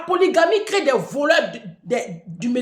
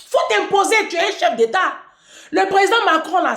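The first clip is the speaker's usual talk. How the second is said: higher and louder, pushing hard; loud urging; 7 semitones higher, 4 dB louder than usual. Real, not acted. Urging the president to stand up to Macron, loud and high. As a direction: egg him on loudly.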